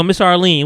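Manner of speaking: showing the "Miss" on top of a name; stress on Miss. Shown as a demonstration. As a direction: put weight on "Miss". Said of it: "we gonna say the Miss on top of the name".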